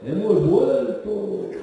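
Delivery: slow, drawn-out imitation of a politician; a hammed-up party leader announcing his return; mock Rubalcaba. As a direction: stretch it out pompously.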